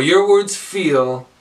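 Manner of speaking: slow, stretched out, unfinished; open-ended lead line. Shown as a demonstration. Teacher offering another first line, open-ended. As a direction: draw out each word and leave FEEL open.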